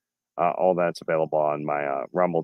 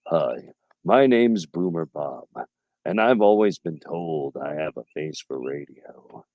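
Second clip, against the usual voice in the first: a hint of a slow, gruff boomer; lightly voiced grumbling boomer; Boomer Bob voice; slower than usual. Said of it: "that's kinda how I do his voice there".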